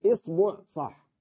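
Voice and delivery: إصبع said isbuʕ, kasra then damma; إصبع with kasra on the hamza and damma on the ba; i then u variant. Shown as a demonstration. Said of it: "فيها عشر لغات". (إصبع بكسر الهمزة وضم الباء)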